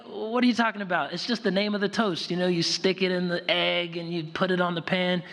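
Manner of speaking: high, quick exasperated explanation; protesting kids, imitated. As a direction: argue back like baffled children. Acts out children protesting to grandmother.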